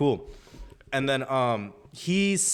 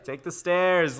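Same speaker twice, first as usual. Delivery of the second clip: higher-pitched mock call; crowd calling out; 5 semitones higher, slower than usual. Whole section telling the drunk kid off, raised mock call. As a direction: imitate a crowd repeating its order. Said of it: "everybody's like".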